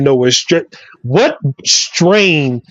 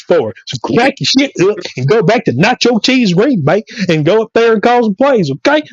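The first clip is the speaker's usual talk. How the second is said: animated, higher-pitched football tirade; comic sports rant; 4 semitones higher than usual. Acted. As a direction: rant like a fired-up sports pundit.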